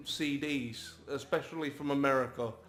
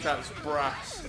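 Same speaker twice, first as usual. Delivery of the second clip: light laughing South London roadman line; a hint of South London kid slang, laughing; playful South London slang quote; mock South London slang. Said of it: "South London terms".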